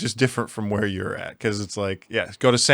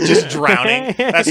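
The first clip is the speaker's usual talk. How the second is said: laughing; 11 semitones higher, 3 dB louder, slower than usual. Real, not acted. Laughing while joking.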